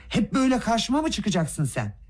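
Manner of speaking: high, raging accusation; furious. A narrator's reading. Gavrila slaps the prince, raging high accusation. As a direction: spit it out in a rage.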